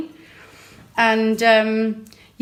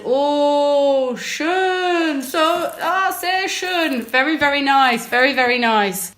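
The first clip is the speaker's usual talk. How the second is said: higher, German-tinged praise; German-accented shopkeeper; 5 semitones higher, much slower than usual. Retold or imitated. Shopkeeper praising her wine choice, higher German accent. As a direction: gush like the shop guy in German. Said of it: "He did tell me".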